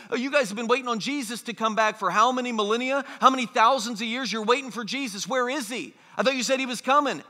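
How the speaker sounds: fast, mocking skeptic's challenge; taunting. Preacher voices skeptics mocking waiting Christians, taunting. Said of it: "skeptics today taunt Christians".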